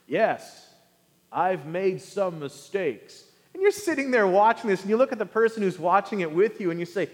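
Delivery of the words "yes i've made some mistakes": mock politician. Politician's confession.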